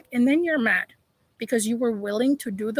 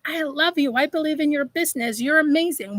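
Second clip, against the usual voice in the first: higher-pitched cheerleading for a friend; retold gushing praise; 3 semitones higher than usual. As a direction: imitate yourself hyping up a friend.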